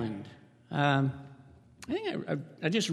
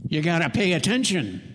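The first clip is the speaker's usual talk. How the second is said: gruff boss; 4 dB louder than usual. Retold or imitated. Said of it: "That'd be what Bobby'd say".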